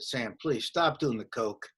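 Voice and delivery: softly voiced, low retold plea; slow, hushed word in a friend's ear; retold whisper. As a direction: confidential aside, mildly hushed. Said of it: "I whispered in his ear".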